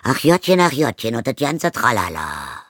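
high, loud mock pity tossed off; dismissive sing-song pity; not sorry at all. Stepmother brushes off Zoe's grief, mocking and careless. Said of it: "in einem Tonfall hinzu, der nicht im entferntesten bedauernd klang".

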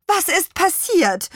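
laut und deutlich höher gerufen, etwas langsam; rufend. Acted. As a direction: besorgt herüberrufen. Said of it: "rief Petronella". (Petronella ruft den Apfelmännchen besorgt zu)

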